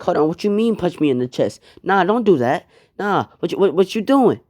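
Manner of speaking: backing away in alarm, voice climbing; panicked protest. Acted. Gon attacked by rock man.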